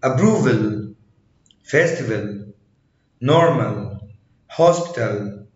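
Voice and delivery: "approval", "festival" with a very light final A. Shown as a demonstration. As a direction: say normal and hospital with the last A barely voiced. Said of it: "بيتنطق خفيف جدًا".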